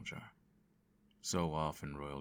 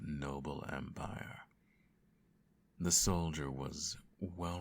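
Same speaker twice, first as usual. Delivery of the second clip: bedtime story narration. Acted. Parent telling the child a bedtime story, gentle narration. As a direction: read it like a lulling fairy tale.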